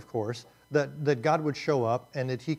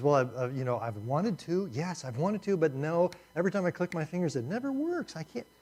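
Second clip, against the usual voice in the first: sheepish Job; 5 semitones higher than usual. Pretend. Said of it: "Job says".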